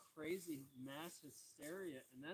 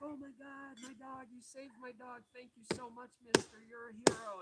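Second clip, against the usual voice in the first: high-pitched imitated child, building louder; freaking-out kid; 8 semitones higher, 9 dB louder than usual. Owner's young daughter thanking her dog's rescuer, imitated high excited voice. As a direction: gush in a high kid voice, rising to loud. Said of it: "she was kind of freaking out".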